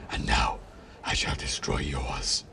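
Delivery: very low, slow villain voice; deep, menacing rodent king; sneering Mouse King. A narrator's reading. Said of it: "sneered the Mouse King".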